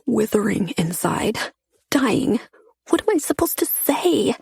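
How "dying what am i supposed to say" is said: panicked. A narrator's reading. Chase in panic, voice rising.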